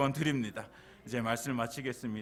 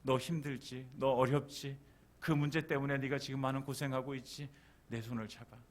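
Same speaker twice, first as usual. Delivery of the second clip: soft, tender coaxing, fading at the end; gentle reassurance; 4 dB quieter than usual. Acted. Jesus offering a hand to the struggling, soft and tender. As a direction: speak softly to someone who is struggling.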